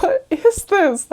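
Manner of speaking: whispered, slow aside; baffled whisper. Retold or imitated. Missionaries whispering to each other about the eager old woman. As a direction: mouth it under your breath, baffled.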